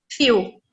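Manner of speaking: "fio" said with a long ee vowel; long i sound. Shown as a demonstration. Teacher shows students the double E sound, long ee. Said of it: "esse aqui eu pronuncio".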